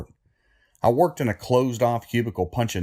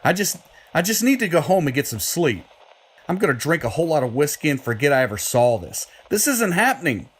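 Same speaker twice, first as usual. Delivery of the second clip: rattled denial; 5 semitones higher than usual. Acted. Lionel refuses to believe.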